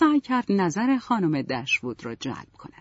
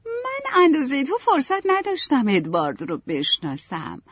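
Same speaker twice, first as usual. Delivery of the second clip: put-on gentle young Marianne; 10 semitones higher, 4 dB louder than usual. A narrator's reading. Marianne apologizes to Elinor about Edward, gently. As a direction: make peace with your sister, gently. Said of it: "با ملایمت گفت".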